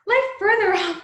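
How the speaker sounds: giggling through the request; laughing. Acted. Hermia giggling as she sends Lysander further off, laughing. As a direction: laugh while pushing him away.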